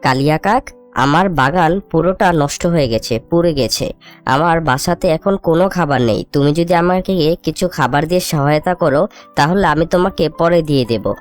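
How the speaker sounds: low, downcast voice asking for help; mildly sorrowful appeal, pitched low; subdued pleading. Acted. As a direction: plead humbly, voice dropped. Destitute bird begging neighbour for food.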